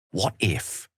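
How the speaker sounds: hushed musing whisper. Acted. Wizard thinking aloud about the goddess, whispered. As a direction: breathe the idea as it dawns.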